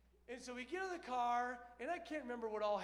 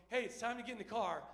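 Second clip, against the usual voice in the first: friendly mom; 4 dB louder, faster than usual. Retold or imitated. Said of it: "my mom's voice changes from".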